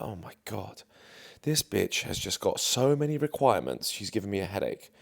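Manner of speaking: under-the-breath exasperated aside; quiet private grumble; muttered aside. Retold or imitated. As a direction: mutter it to yourself, annoyed. Inner thought about the girl, aside.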